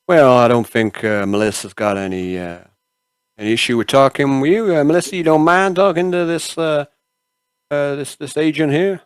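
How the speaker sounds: a hint of an obliging doctor character; lightly voiced camp doctor. Game master plays the doctor.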